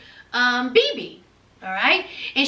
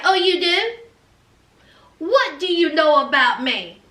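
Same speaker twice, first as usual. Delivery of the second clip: mock cocky comeback, pitched up; 3 semitones higher than usual. Mia answering Elena's claim to know about her, cocky. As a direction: toss it back with a little cockiness. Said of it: "Mia was a little cocky".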